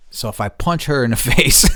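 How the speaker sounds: chuckling through punch her in the face; half-joking, a laugh breaking in. Real, not acted. Joking about punching neighbour.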